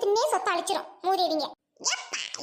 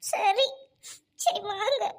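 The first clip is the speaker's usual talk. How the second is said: tearful; much slower than usual. Acted. Wife bids soldier goodbye tearfully.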